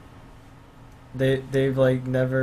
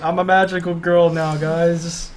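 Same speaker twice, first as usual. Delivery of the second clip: higher, louder playful declaration; mock cheerful announcement; 4 semitones higher, 4 dB louder, slower than usual. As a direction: announce it gleefully, half joking. Repeating the boy's announcement.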